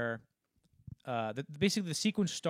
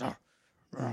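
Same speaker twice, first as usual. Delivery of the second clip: short mimicked "arr" noises; imitated weird noise; 4 dB louder than usual. Man passing a mirror, imitated weird "arr" sounds. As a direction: make two odd, rough little grunts. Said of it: "He does, like, a weird thing".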